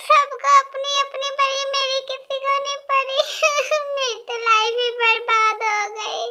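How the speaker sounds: hammed-up sing-song crying lament; mock wailing. Bride wailing to the family about her marriage, hammed-up crying. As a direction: wail it out like a sulking bride. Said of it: "तुम ऐसे चिल्ला के रो क्यों रही हो".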